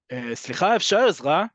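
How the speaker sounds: annoyed customer, sharp and pushy; impatient shopper calling a clerk; passive-aggressive. Shown as a demonstration. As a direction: demand help with barely hidden irritation. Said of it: "you can hear it in my voice, that is very passive-aggressive".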